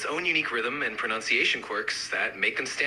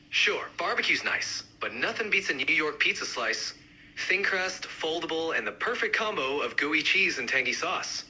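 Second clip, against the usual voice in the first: lightly done New York accent. Shown as a demonstration. Pizza fan countering the barbecue fan, mild New York accent. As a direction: give it a hint of New York. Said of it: "each accent, uh, represented by a speaker".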